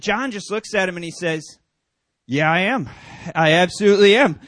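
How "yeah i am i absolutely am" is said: mock confident. Pastor plays along, joking.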